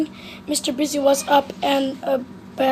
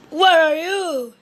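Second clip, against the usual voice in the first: called out; 3 semitones higher than usual. Acted. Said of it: "He called".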